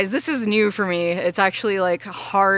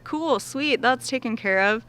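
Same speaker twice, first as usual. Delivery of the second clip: breezy relief; 5 semitones higher than usual. Retold or imitated. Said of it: "And so I was like".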